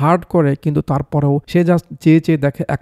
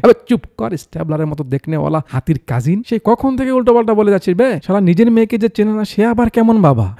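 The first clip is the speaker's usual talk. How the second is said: angry outburst; 5 semitones higher than usual. Acted. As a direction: tell off the insulting father. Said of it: "কাকু এবার খুব রেগে যায়".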